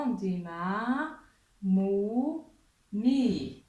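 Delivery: ma, mou, mi drawn out slowly; teacher modelling vowels. Shown as a demonstration. Teacher to class, models the short vowels slowly. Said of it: "On dit comment?".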